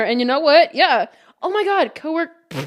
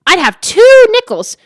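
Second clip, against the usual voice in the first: higher, booming mock declaration; quoted meme; 5 semitones higher, 14 dB louder than usual. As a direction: proclaim it like a well-known line. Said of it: "and it's just like".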